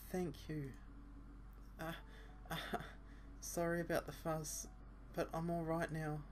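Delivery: put-on a young woman pushing through, quietly firm; determined girl. Asa Senpai insisting to Asa Senpai's partner, soft and high.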